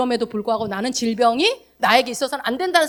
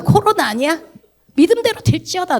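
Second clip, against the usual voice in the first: loud teasing decree; mock curse; 6 semitones higher, 5 dB louder than usual. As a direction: hurl it like a joking curse. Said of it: "내가 그랬어요". (장난스럽게 저주하듯 크게)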